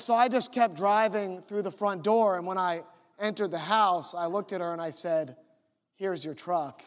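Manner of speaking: mildly deadpan imitation of a calm man. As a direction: keep it even and matter-of-fact to the last word. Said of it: "He said it so calmly".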